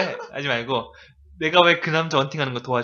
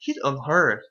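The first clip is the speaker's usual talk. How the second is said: slow, louder disbelieving why; incredulous; 4 dB louder, much slower than usual. Shown as a demonstration. Teacher shows the student how absurd the request is. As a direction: spit it out in total disbelief. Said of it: "정말 어이없는 감정".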